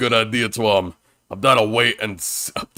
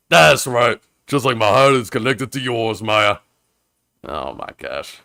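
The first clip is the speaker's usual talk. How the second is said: boastful flirt. Acted. Voicing a flirty boastful character.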